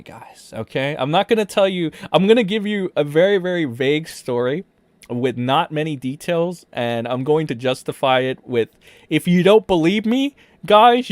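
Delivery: loud, pushed parody of an accuser; hammed-up, emphatic fake testimony; mock accusation. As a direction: declare it loudly in pretend earnest. Parodies an accuser making vague claims.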